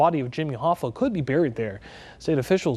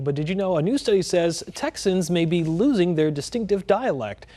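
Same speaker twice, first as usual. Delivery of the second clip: even anchor feature read; news read. Acted. Anchor introducing the Texas twang study, news read. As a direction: tell viewers the story clearly.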